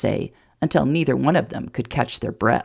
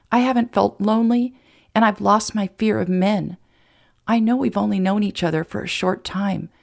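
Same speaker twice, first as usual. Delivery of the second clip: slightly higher voice, earnest and moved; lightly voiced tender Emma; 5 semitones higher than usual. Emma accepting Jason's proposal, earnest and moved.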